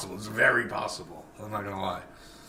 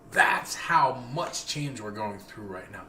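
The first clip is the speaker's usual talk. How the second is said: slow emphatic; slower than usual. Real, not acted.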